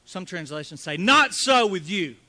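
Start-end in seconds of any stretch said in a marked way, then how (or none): 1.0-2.1 emphatic, slow. Acted. Reading alternate translation, emphatic.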